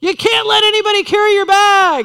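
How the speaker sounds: insistent high yelling. Retelling what a man screamed at the speaker, imitating him screaming. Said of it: "he screams to me".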